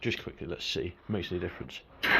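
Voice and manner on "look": high, loud delighted shout; excited shriek. Real, not acted. Engine fires again.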